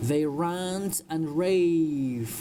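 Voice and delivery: slow, deliberate sentence for learners; slow model reading. Shown as a demonstration. Teacher reads a story sentence to English learners, slowly. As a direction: draw each word out for students.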